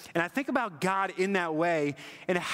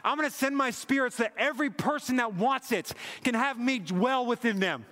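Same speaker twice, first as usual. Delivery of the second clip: God's eager longing; 5 semitones higher than usual. Retold or imitated. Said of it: "It says".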